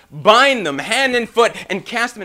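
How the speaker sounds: high, loud, slow angry command; imitated royal fury; upset king. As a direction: order it like an enraged monarch. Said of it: "he was really upset now".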